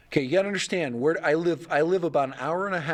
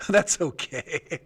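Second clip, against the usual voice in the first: laughing; much slower than usual. Real, not acted. Laughs at failed search.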